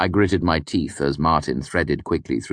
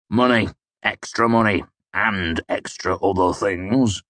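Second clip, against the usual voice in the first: chortling; 5 semitones higher than usual. Acted. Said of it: "he chortled".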